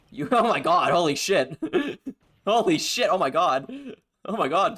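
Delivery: loud, breathless laughter through the words; cracking up in disbelief; laughing excitedly. Real, not acted. Cracking up at the scream.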